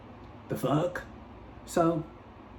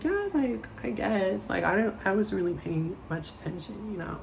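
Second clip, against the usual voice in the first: much higher, softer dodging voice; evasive fake casual; 5 semitones higher, 4 dB quieter than usual. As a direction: play dumb and brush it off. Evasive answer to Nicole.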